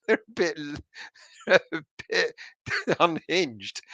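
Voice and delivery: words broken up by real laughter; giggling through it; can barely get it out for laughing. Real, not acted. Laughing at mad hooligans.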